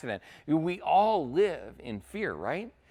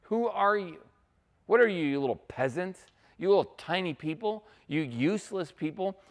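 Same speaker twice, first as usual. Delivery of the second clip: higher-pitched mock taunting; trash talk; 6 semitones higher than usual. Goliath talking trash to the Israelites, mock taunting. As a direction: lightly act out a belittling challenge. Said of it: "He's kind of talking trash".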